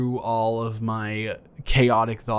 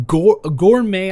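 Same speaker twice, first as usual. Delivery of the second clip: grand build-up; 9 semitones higher, 11 dB louder, slower than usual. Acted. Hyping up a mug of cocoa.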